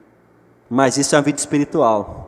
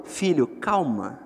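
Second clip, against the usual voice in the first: gentle calm voice; 5 dB quieter than usual. Acted. Voicing God gently calming.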